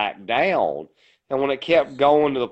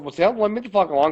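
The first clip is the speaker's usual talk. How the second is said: fast, heated warning; quick, higher, hot-tempered threat; retold angry retort; 5 semitones higher, much faster than usual. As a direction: rattle it off in a rage. Angry retort to bartender in fight.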